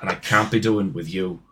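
put-on put-upon Scouser at the door, Scouse accent; belligerent Scouser. Fed-up visitor complaining of demons, Scouse accent. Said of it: "a really fucking belligerent Scouser".

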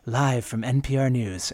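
lightly imitated radio sign-on; N P R newscaster Shay Stevens. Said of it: "she always starts with".

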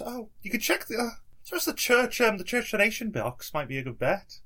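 a hint of a chatty villager; Jim's voice. GM voicing Jim, higher.

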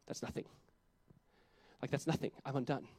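dropped almost to a whisper; hushed. Real, not acted. Preacher to congregation, hushed and low. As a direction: let it fall soft and low.

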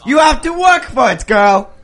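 hammed-up German accent; mock German accent. Shop owner presents himself and partner, mock German accent. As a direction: declare it in a bad German accent. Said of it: "I am a German man".

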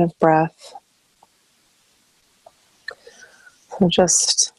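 calm meditation guide, long pauses between phrases; guided meditation. Acted. Counselor guiding listeners into breath and stillness, calm meditation voice. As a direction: ease them through each breath, leaving space after phrases.

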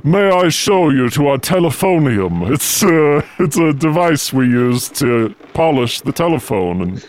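low, croaky servant voice; hunchback assistant. Acted. Igor leads Beatrice away.

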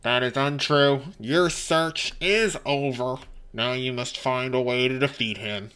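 loud, measured announcing voice; computer talk. Acted. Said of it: "computer talk now".

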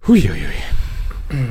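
loud amazed hui; impressed whistle. Real, not acted. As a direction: sound impressed. Impressed by stats. (beeindruckt staunend)

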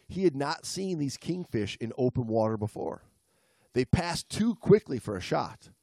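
measured storytelling read; story narration. A narrator's reading. Reads the story aloud.

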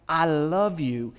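"I love you" meant tenderly, not lightly; sincere I love you. Shown as a demonstration. Preacher telling his wife "I love you", sincere. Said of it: "it better have a different meaning".

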